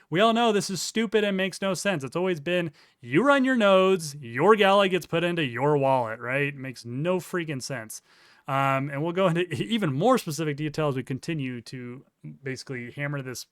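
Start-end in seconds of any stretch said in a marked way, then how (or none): 0.1-8.0 scornful. Real, not acted. Mocking opponent's claim.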